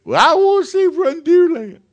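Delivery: put-on high, loud child's wail; insistent little girl. Daughter insists tearfully.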